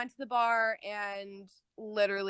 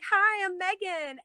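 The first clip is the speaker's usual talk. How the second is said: imitating own eager hi; 9 semitones higher than usual. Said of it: "And I was like".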